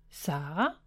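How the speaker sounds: a hushed, tentative call into the dark room; soft call. A narrator's reading. Brother peeks into sister's empty room, calling softly. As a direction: call her name softly, unsure. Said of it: "Han kaldte højere nu".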